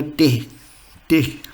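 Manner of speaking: "T" said as "teh"; German letter name. Shown as a demonstration. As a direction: say "T" with an eh vowel, not ee. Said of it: "T is called a T".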